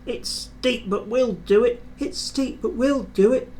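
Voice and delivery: two engines puffing in rhythm; puffing together. A narrator's reading. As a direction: chant it like wheels on the rails. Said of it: "the two engines puffed together".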